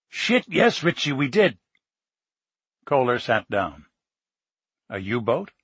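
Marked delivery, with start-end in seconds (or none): 0.1-1.6 higher, bursting with excitement; excited. Acted. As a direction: blurt it out thrilled. Excited confirmation of U-boat.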